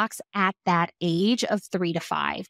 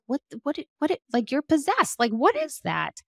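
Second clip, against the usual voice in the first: mock bewildered; 5 semitones higher than usual. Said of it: "And you're like".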